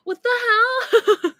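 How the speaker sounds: very high, loud, drawn-out mock wail; drunken whine. Drunk girl to the apologizing guy, tearful drunken whine. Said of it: "I don't know why I was talking like that".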